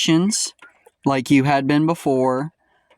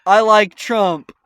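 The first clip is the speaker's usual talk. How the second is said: imitating commenter; 4 semitones higher than usual. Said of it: "he'll be commenting under people's things like".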